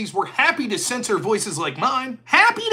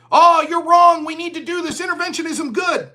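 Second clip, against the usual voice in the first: mocking critics; 5 semitones higher than usual. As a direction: caricature a smug hawk brushing you off.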